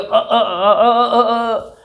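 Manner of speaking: repeated stuck अ, forced and broken; speech coach imitating a stammer on the first vowel; stammer demo. Shown as a demonstration. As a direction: act out a stutterer straining on अ. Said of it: "यहाँ पे जोर लगाना शुरू करते हो".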